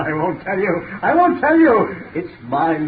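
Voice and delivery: manic gloating. Acted. Gloating, rising.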